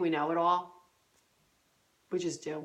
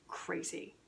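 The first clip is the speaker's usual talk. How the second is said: whispered crazy; 11 dB quieter than usual. Pretend. Whispered self-description.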